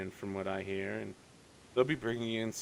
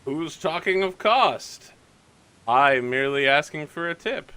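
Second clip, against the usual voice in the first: sly informant voice; 4 semitones higher, 8 dB louder than usual. Acted. Informant brushing off the price, slyly hinting at a tip. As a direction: play innocent about wanting money. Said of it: "He, he's like".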